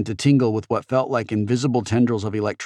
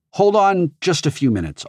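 put-on impatient teen boy; 9 semitones higher, 3 dB louder than usual. A narrator's reading. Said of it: "Og said".

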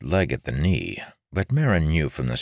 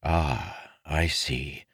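inner thought; 5 dB quieter, much slower than usual. A narrator's reading. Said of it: "Marin thought".

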